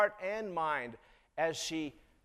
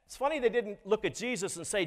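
ordinary talk, nothing marked

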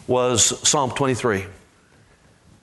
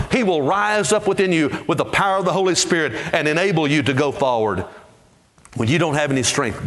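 ordinary talk

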